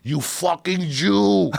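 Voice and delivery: high, slow mock yell of the pizza man; imitated yell. Pizza man yelling at the cheap kid across the street, high slow mock yell. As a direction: stretch it out, hammed-up shouting at the kid. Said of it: "he'd yell at the kid".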